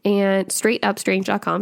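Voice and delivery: slow, careful web address; measured repeat for the listener to catch. Shown as a demonstration. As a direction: spell it out clearly, word by word. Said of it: "Sorry, I said that really fast".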